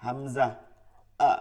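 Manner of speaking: "আ" cut short with a firm glottal catch; firm, solemn "আ"; hard grave hamza. Shown as a demonstration. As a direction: stop the throat hard on "আ". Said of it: "শক্ত এবং গম্ভীর আওয়াজ".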